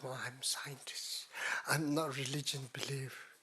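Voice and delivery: slow, softened mock scientist boast; lightly imitated self-styled scientist. Teacher mocking imitators of science, in a slow, soft pretend boast. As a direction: lightly put on a would-be scientist, unhurried and quiet. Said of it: "best to show up".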